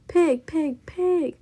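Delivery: high, loud repeated yells; outraged shouting. A narrator's reading. Eugenia chases the pig from her yard, outraged shouting. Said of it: "shouted Eugenia".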